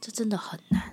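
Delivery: very gentle, soft, tender, whispered voice. Agreeing that parenting is hard: very gentle voice. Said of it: "用非常温柔的声音说好难啊".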